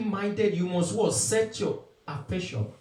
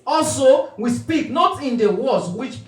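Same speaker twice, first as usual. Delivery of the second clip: raised, emphatic recitation, stretched at the start; scripture preaching; 3 semitones higher, 5 dB louder, slower than usual. Real, not acted. Preacher returning to the verse to correct believers, scripture preaching. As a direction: hammer the opening words of the verse.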